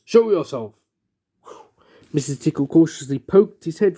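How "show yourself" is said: a lightly rumbling dragon command; a mild, low-key dragon demand. Acted. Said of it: "rumbled a very deep voice".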